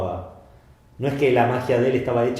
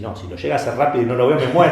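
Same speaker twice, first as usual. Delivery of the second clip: fast and louder, breaking into a laugh; amazed spectator; 3 dB louder, faster than usual. Retold or imitated. Spectator marvels at the magician's speed, fast and laughing. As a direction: gush it out, half laughing. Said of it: "Y vos decís".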